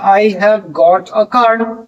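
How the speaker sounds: slow British example. Shown as a demonstration. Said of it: "British English में have के बाद got लगता है".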